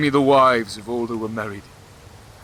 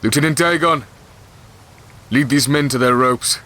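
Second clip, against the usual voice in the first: raised, higher voice barking a command to his lieutenant; commanding order; 4 semitones higher than usual. Acted. King orders his lieutenant to lead the men, raised command. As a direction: call it out so the whole field hears.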